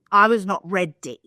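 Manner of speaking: punchy and loud; loud emphatic repeat. Shown as a demonstration. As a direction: hit it harder the second time.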